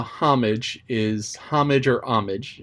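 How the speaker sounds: "homage" said with an h, then without; both pronunciations. Shown as a demonstration. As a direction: compare "homage" h and no h, slowly. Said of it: "it goes either way".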